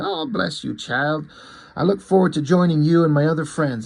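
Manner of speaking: put-on a touch of pious old-lady blessing; grateful mother-in-law. Mother-in-law blesses the visitor promising heaven, lightly acted, grateful. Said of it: "she's like".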